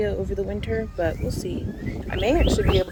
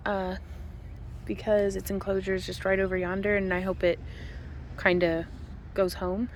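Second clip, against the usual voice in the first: quiet; 9 dB quieter than usual. Real, not acted. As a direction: keep it down near the bunny. Quiet near escaped bunny.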